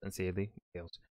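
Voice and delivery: mock English accent reading a letter. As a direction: read it out in an English accent, pen pal style. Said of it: "so I defaulted to the English".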